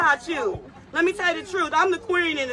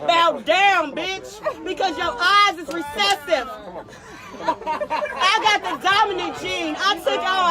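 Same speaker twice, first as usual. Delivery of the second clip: angry shouted command; 3 dB louder, slower than usual. Real, not acted. Ordering a passenger to bow down.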